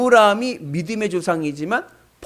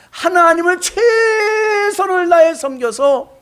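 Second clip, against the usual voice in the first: high, loud, slow tearful cry; crying-out preaching; 14 semitones higher, 9 dB louder, much slower than usual. Acted. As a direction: cry it out to the congregation. Preaching climax. (울부짖는 설교)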